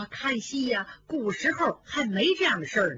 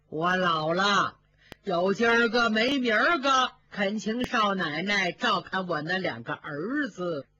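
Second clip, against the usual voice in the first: a hint of an old woman begging a favour; old nanny Zhao; 2 semitones lower than usual. Old nanny asking the young mistress for help, lightly voiced old woman.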